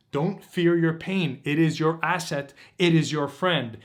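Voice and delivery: usual speaking voice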